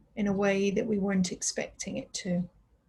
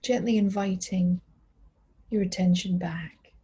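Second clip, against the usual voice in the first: unhurried body-scan guidance with long pauses; calm, spacious mindfulness voice; guided meditation. Real, not acted. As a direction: guide them gently through the body, leaving space after each phrase.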